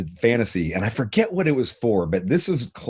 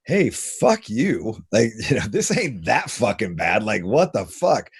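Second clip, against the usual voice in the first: slow, dismissive, dropping to a whisper; brushing off the rejections, mock defiant; defiant shrug; slower than usual. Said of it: "it was just like".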